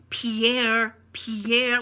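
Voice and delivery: loud imitated name call, repeated. Server calling out another wrong name.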